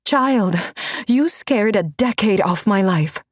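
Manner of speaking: put-on a mentor chiding the girl she thought dead; older mentor, relieved. Renata voiced, relieved scold.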